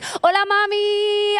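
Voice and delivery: high, slow, hammed-up Latina accent. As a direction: play up a Spanish-speaking neighbor, high and slow. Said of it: "take on the accent".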